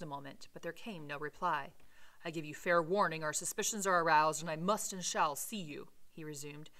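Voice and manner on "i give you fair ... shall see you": raised voice, forceful and insistent; loud warning. A narrator's reading. Utterson warns whoever is behind the cabinet door, loud warning. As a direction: issue a loud, firm ultimatum. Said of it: "cried Utterson with a loud voice".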